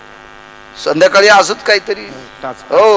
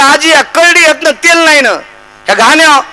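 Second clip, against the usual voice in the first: mock wrestler; 10 semitones higher, 3 dB louder than usual. Pahilwan asks grandmother.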